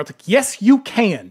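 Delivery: ordinary delivery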